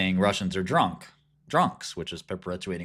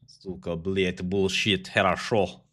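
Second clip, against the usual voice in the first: put-on thick comic Russian accent; mock Russian accent; 3 semitones higher than usual. Russian correcting someone about how he sounds, mock Russian accent. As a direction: play a Brighton Beach Russian, indignant and cursing. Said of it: "Russian sounds different".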